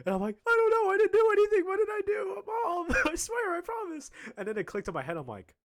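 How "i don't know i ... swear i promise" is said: hammed-up panic, high-pitched shouting; mock frantic shout, breaking into a laugh; panicked pleading. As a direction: squeal your innocence like a cornered kid. Panicked denial to mom, retold.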